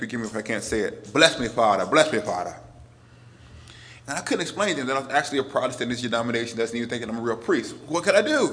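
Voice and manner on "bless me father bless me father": thick, heavy put-on Boston accent. Retelling a homeless man in Boston coming up to a deacon, thick Boston accent. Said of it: "in his thick Boston accent".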